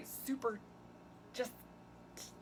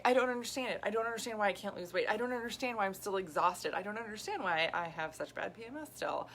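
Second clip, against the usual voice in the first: lightly acted exasperated dieter; mock frustration; 2 semitones higher than usual. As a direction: imitate someone baffled and fed up, mildly. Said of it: "And it's so frustrating".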